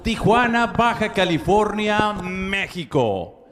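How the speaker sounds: booming Spanish ring announcer. Acted. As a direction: call the card like a lucha libre announcer. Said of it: "our ring announcer extraordinaire".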